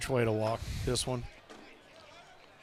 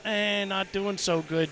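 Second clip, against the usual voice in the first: mopey self-pity; 5 semitones higher, slower than usual. Retold or imitated. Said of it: "the self-proclaimed".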